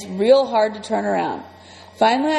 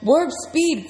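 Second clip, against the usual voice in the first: high excited shout; 6 semitones higher than usual. Acted. Freak shouts from his friend's shoulders, excited. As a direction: bark the order like a starship captain. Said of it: "Freak is shouting".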